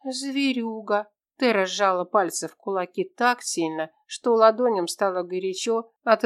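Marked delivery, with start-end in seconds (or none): 0.0-1.1 put-on higher, childlike girl's voice; lightly voiced young girl asking her friend; little girl Tera. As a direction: play a small lost girl, hopeful.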